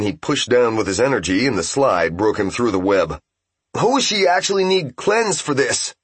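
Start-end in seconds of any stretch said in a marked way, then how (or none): 3.8-5.9 calling out. Acted. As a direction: call it over the fight noise. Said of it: "said Ippei".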